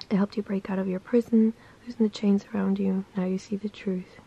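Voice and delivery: steady, earnest reading-aloud voice; affirmation reading. Acted. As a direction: read it like a gentle daily devotion. Reads daily affirmation aloud.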